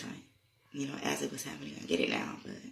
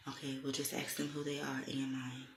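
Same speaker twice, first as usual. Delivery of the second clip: calm; 4 dB quieter than usual. Retold or imitated. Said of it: "she says calmly".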